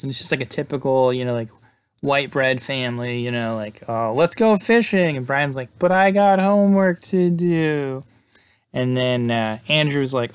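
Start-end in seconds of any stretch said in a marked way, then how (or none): 3.9-5.2 mock wholesome dad. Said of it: "He does some improv about what life would be at Brian's house". 5.8-8.0 mock goody-goody kid. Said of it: "He does some improv about what life would be at Brian's house".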